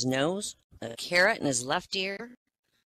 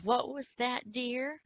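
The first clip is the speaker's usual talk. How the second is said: put-on old lady; 8 semitones higher, 5 dB quieter, much slower than usual. Deaf old lady in joke.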